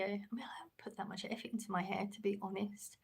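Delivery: unvoiced, hushed confession about her hair; whispered aside. Real, not acted. Streamer admitting to chat she barely styles her hair, whispered. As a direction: drop to a whisper as if admitting a secret.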